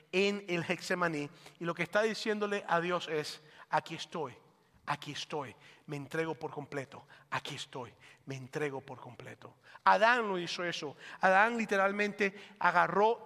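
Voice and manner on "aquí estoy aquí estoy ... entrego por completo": hushed, surrendered prayer, much softer; quiet prayer. Acted. Jesus surrendering to God in the garden, hushed prayer. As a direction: breathe the words out low and humble. Voicing Jesus praying in Gethsemane.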